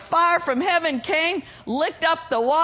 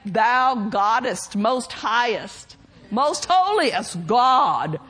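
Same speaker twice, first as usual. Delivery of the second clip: slow, lower, mock-solemn hypocrite praying; pompous prayer; 5 semitones lower, slower than usual. Mocking the hypocrites praying for show, slow and pompous. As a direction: ham up a pious show-off prayer, slowly. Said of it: "I can't do it as good as Pastor".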